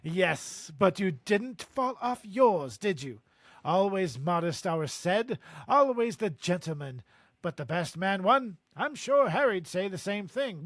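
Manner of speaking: put-on hearty British-accented proud dad; boastful English father. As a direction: brag about your son, British accent. Reads Amos's dialogue in character.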